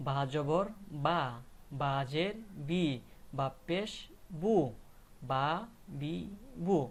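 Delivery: slow chant-like drill, বা, বি, বু drawn out; spelling-out drill. Shown as a demonstration. Teacher showing learners how ba takes three vowels, spelling-out drill. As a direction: spell out each mark, then hold বা, বি, বু. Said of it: "উচ্চারণ হবে আমার কেমন".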